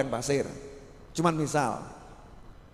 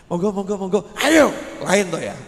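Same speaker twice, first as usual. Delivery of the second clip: bow them in politely, please please please; an angel courteously escorting the righteous man; polite ushering; 3 dB louder than usual. Acted.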